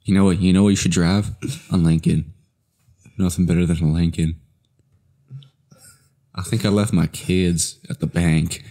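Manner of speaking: lightly drawled laid-back Texan voice; McConaughey impression. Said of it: "That's my Matthew McConaughey impression".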